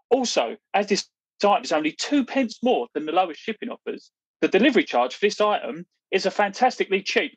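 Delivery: deadpan sales pitch read from a script; mock advert read. Podcast host reading a spoof advert for listeners, mock salesman. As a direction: sell it like a tongue-in-cheek club shop ad.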